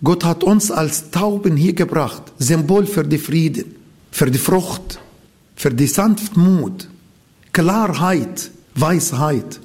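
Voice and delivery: ordinary talk, nothing marked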